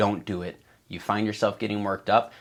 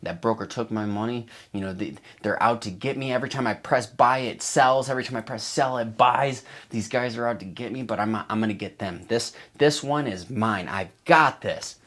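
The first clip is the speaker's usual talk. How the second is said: worked-up revenge trader; 3 semitones higher, 4 dB louder than usual. Retold or imitated. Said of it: "you're like".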